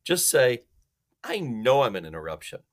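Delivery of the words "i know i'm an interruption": flat, matter-of-fact admission; plain factual delivery; bald statement of fact. Shown as a demonstration. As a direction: state it baldly, no apology. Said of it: "a bald fact in a baldly factual way".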